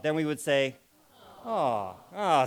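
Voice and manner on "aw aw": falling, let-down aw; disappointed aw. Shown as a demonstration. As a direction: sound let down. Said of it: "we say a little bit differently".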